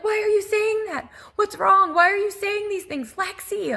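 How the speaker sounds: high, loud, frantic questioning; freaked-out screaming. Retold or imitated. Mother demanding answers from her daughter on the phone, retold frantic scream. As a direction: re-enact a terrified mother's yelling. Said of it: "I'm screaming, freaked out".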